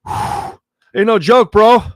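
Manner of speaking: high, slow, sighing, on the edge of tears; choked up. Real, not acted. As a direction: let the emotion crack through, drawn out. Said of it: "Getting emotional thinking about it".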